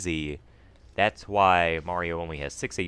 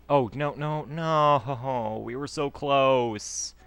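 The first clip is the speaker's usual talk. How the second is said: high, loud "oh no no no" into a laugh; dismayed outcry; 8 semitones higher, 4 dB louder, much slower than usual. Real, not acted. Player watching his boat crash, yelping and laughing. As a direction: yelp as the run slips away, then laugh it off.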